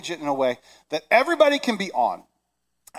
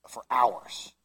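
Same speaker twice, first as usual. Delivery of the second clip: whisper; 6 semitones lower, 5 dB quieter than usual. Real, not acted. Fond memory, whispered.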